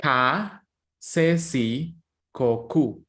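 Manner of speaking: slow, careful teacher sounding out ka, se, si, ko, ku; Spanish syllables. Shown as a demonstration. Teacher drilling students on Spanish syllables, careful and clear. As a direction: spell out ka, se, si, ko, ku one by one, clearly. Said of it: "So we say".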